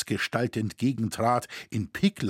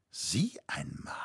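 whisper; 2 semitones lower, 9 dB quieter, slower than usual. A narrator's reading. Old man muses to himself.

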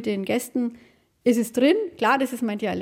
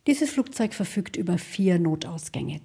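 flight announcement; 5 semitones lower than usual. Shown as a demonstration. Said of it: "ihre Bordansagen kann sie aber immer noch auswendig".

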